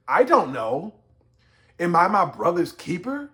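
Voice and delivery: emphatic smart-mouthed denial; Cain. Acted. Cain talking back to God, pointedly smart-mouthed. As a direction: hit "don't", then a challenging rising question. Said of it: "He probably said".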